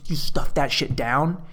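normal talking voice

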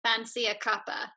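lightly attempted London accent; imitated British accent. Contestant copies the London guest's phrase, light British accent. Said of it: "or any British accent".

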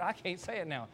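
usual speaking voice

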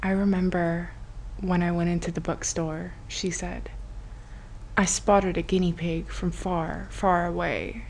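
soft, mock storybook narration; quiet book-reading voice; book reader. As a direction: read it softly, like a book reader. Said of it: "Like, a book reader and all that".

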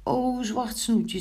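high, drawn-out lament; dismayed. A narrator's reading. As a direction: wail it lightly, slow and high. Figure distressed over spoiled cloth. (beteuterd en klaaglijk)

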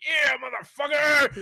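high, drawn-out gleeful shout; triumphant yell. Retold or imitated. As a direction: holler it like a rampaging troll in a game. Acts out car show wrecker's yell.

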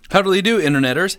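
goofy put-on greeting voice; a silly affected weird voice. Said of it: "You heard me do that weird voice".

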